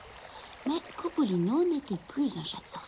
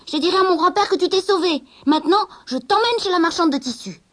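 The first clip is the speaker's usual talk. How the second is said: put-on high, loud triumphant girl; gloating girl voice; spiteful girl; 9 semitones higher, 8 dB louder than usual. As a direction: crow over your catch. Girl gloats over trapped cat.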